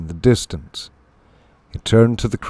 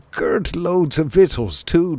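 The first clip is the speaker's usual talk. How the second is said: high rustic mole voice; gleeful country mole, pitched high; chuckling mole; 8 semitones higher than usual. A narrator's reading. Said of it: "Denny chuckled".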